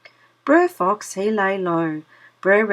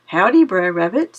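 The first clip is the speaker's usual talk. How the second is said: sly greeting; 6 dB louder than usual. Acted. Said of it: "says he".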